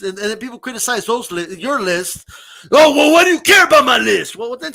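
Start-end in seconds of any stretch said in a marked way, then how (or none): 2.7-4.4 mocking whine. Mocking list makers' defensive reply.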